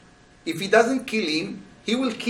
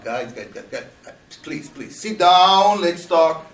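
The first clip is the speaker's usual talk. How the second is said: calming down; 4 dB louder than usual. Pretend. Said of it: "not just to come down".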